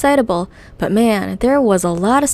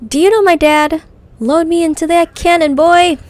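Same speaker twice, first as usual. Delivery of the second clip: loud, higher bellowing goblin; goblin shout; 8 semitones higher, 8 dB louder than usual. Acted. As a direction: bark the order.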